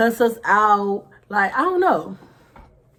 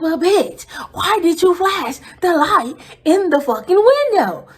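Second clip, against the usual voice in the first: raised, higher angry scold; scolding friend over the flashlight; mad; 8 semitones higher, 6 dB louder than usual. Retold or imitated. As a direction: let the anger burst out. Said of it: "mad off of that".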